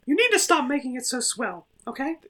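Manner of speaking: very high falsetto character voice; squeaky cartoon voice. Cartoon mascot at an intervention for Jim, chiding in a squeaky falsetto. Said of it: "I don't know why your voice went into".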